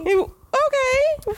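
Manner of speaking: skeptical drawn-out okay. Real, not acted. Groaning at a corny joke.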